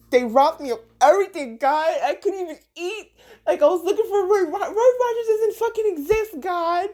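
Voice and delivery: high laughing complaint; laughing whine. Retold or imitated. You whining to God about being robbed, high and laughing. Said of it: "complaining to God".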